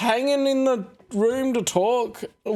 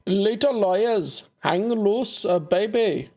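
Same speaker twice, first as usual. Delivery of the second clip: laid-back dude voice; slower than usual. Acted. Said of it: "should I be giving him this accent".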